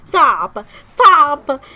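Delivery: loud, pained cry; real shouted plea, emotional; overwhelmed protest. Real, not acted. Overwhelmed by a sad discovery.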